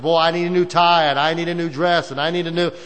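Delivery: whiny wanting. Retold or imitated. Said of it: "we make statements like".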